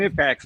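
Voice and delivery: "Knipex" as kuh-NIP-ex, K pronounced; hard K pronunciation. Real, not acted. Host shows how he said it, K sounded. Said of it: "say it that way".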